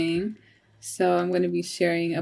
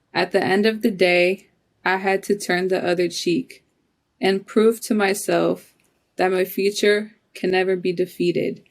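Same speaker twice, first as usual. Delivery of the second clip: measured spoken-word reading in short phrases; poetry reading, steady and deliberate; poem recital. Acted. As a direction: recite it line by line, pausing between phrases.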